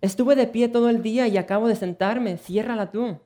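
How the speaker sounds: high, loud indignant retort; indignant wife. Acted. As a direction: snap back at the husband. Bride refuses in quarrel.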